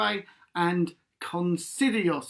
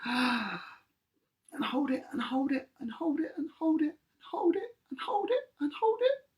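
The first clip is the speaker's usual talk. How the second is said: rising higher each time; 8 semitones higher, 5 dB quieter than usual. Shown as a demonstration. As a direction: pitch climbing on every hold it. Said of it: "till my voice gets any higher".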